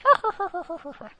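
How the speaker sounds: high loud laugh; burst of laughter. Real, not acted. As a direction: crack up at your own joke. Laughs at own joke.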